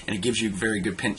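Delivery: fast, rushed words; talking fast. Real, not acted. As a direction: rattle it off quickly. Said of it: "I'm sorry I'm talking fast".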